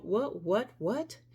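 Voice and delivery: startled, rising what; surprised. Real, not acted. Reader interrupted by incoming downloads, surprised. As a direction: caught off guard by a sudden message. Interrupted mid-reading by sudden insight.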